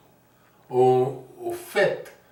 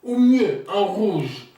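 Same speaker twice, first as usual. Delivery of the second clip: declaimed musing, building to higher and louder; theatrical monologue; 5 semitones higher, 4 dB louder than usual. Acted. Niki sharing ideas on wedding colours, theatrical recitation. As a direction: pose the questions, then lift the final answer. Reads Niki's monologue on marriage.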